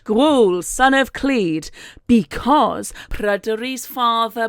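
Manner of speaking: slow, mildly grand proclamation; hammed-up, drawn-out self-introduction; villain announcement. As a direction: declare it like a villain revealing his origin. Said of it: "villain origin sort of announcement".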